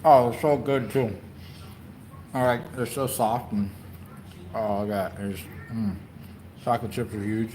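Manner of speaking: talking while chewing cookie; mouth full. Real, not acted. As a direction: speak through a mouthful. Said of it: "I'm eating with my mouth full".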